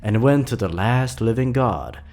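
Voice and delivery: a hint of a grandma gathering her grandchildren round; old grandma storyteller. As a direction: tell it like a folksy old grandmother to the kids. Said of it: "Grandma Millie got an old tale to tell ya".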